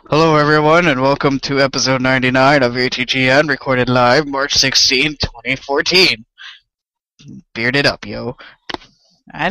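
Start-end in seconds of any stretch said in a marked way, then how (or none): 0.1-8.4 Chris impression. Doing Chris welcoming everyone, lower and slowed down. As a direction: play the bearded co-host, lowered and slowed on the date. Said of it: "let me put on my best Chris impression".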